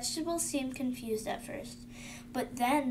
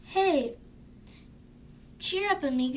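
a bold, louder cheery Tomato; cheerful Tomato; 3 semitones higher, 4 dB louder than usual. Acted. Child reading Tomato cheering up Avocado, bold and loud.

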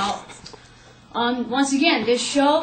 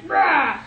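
short mock roar, pitched up; a quick playful Hulk-out growl; 5 semitones higher, 4 dB louder than usual. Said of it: "just hulks out of it".

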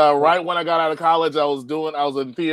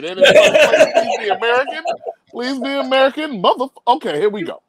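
high, laughing announcer hoping for an easy name; desperate announcer; 8 semitones higher than usual. Retold or imitated. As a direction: race caller begging for an American winner. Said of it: "you can hear the fear in the announcer's voice".

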